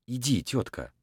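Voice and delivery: soft, hushed words to the dog; quiet. A narrator's reading. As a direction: say it very softly. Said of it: "сказал он тихо".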